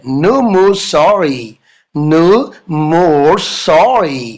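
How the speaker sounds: very slow, firm refusal; firm teacher. Retold or imitated. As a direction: lean on each word to shut it down. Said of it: "madam बोलती है".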